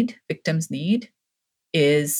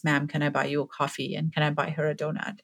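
soft, gently retold kind offer; 6 dB quieter than usual. Stranger offering a mother coffee and a donut, kind voice. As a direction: quote a kindly stranger, softly. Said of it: "said in a kind voice".

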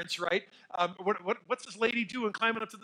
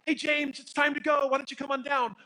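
imitating a mom's sing-song call, higher; calm mom call; 8 semitones higher, 5 dB louder than usual. Mother calling her son down from the play area, mock-calm and higher. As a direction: sweetly coax the child down from the top. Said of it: "she calmly says".

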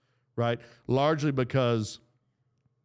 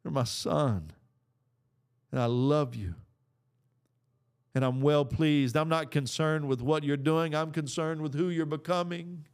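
a hint of a loving father comforting; tender voice of God. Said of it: "God is over here saying".

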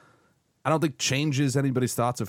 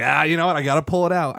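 imitating Trump; 5 semitones higher, 6 dB louder, faster than usual. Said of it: "it's like".

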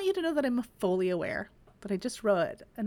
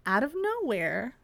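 a light hint of a dramatic dance-teacher build-up; mock suspense, barely voiced; Abby Lee impression; 3 semitones higher than usual. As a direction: tease the twist like a reality-show coach. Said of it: "that's my Abby Lee impression".

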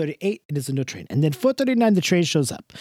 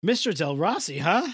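put-on thick Jersey Italian accent; Italian-American accent; 2 semitones higher than usual. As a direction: play a warm old Italian uncle. Held Italian-American character voice.

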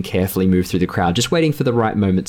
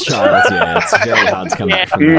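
laughing; 10 semitones higher, 5 dB louder than usual. Real, not acted. Laughing at the flirting joke.

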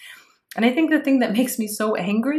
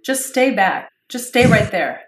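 firm cop order, a touch louder; police command; 5 dB louder than usual. Pretend. Friend tells co-host to keep back, like police. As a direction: bark it like a cop keeping someone back. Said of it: "You sound like the police".

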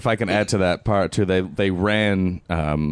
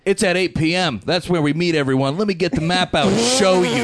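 goofy character voice; 11 semitones higher than usual. Pretend. Reenacting movie characters.

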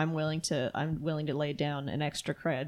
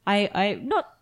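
awkward Xavier voice; 3 semitones higher, 3 dB louder, slower than usual. Acted. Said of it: "and he's like".

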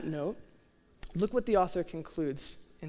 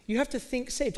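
"You have to think saved" lifted much higher, pressing "have"; raised emphatic take; 7 semitones higher than usual. Shown as a demonstration. Preacher to congregation, repeating the point higher and emphatic.

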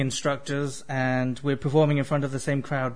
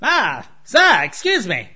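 overly polite fly; 5 semitones higher, 3 dB louder than usual. Pretend. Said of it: "two flies that are very courteous".

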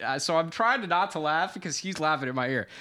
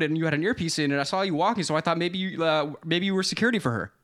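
rapid rant; 3 semitones higher than usual. Retold or imitated. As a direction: rattle it off like a conspiracy. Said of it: "psychopathic rant, like, a hundred miles per".

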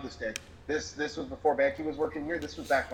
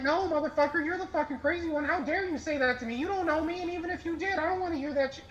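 retold angry outburst; 12 semitones higher than usual. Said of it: "I was like".

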